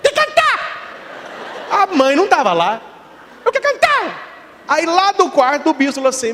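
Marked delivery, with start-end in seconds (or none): 0.0-0.6 put-on very high child's call for mom; little boy calling. Boy wakes alone at night. 3.4-4.6 put-on high, slow child's plea; high kid's insistent singsong; little boy voice.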